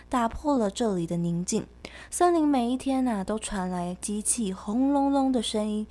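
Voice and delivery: put-on reading to a toddler. Reads the picture book story.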